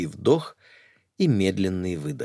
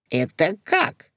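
puzzled; 11 semitones higher, slower than usual. Acted. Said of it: "не поняла Зюка".

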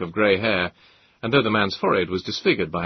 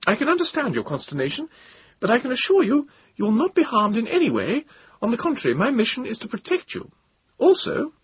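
higher, commanding officer's voice; higher voice of a commanding captain; Captain Bond, commanding; 4 dB louder than usual. A narrator's reading. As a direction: state your orders as a firm officer, pitched higher.

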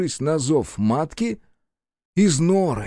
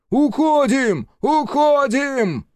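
much higher, slow, bellowed retreat call; full-force yell; 11 semitones higher, 3 dB louder, much slower than usual. Acted. Рух bellows the retreat order at full force. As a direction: roar the retreat order across the field. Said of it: "снова заорал во всю мочь".

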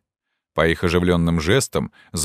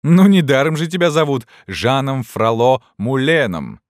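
teasing call; 7 semitones higher, 4 dB louder than usual. A narrator's reading. Student teasing his friend aloud.

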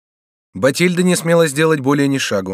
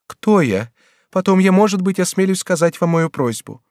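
a higher, lightly voiced young girl begging; young woman pleading; 7 semitones higher, 3 dB louder than usual. Bathilde kneels before the regent, begging, lightly voiced higher. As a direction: plead on your knees, voice lifted.

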